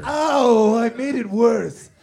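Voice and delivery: loud yelp of pain; pained yell. Acted. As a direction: cry out like it really hurts. Batman yelling in pain.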